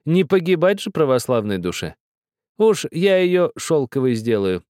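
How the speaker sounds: put-on high, pressing old woman's voice; insistent old woman. A narrator's reading. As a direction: insist like a stern grandmother.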